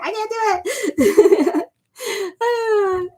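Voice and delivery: laughing panic. Retold or imitated. Retelling panic over online dating.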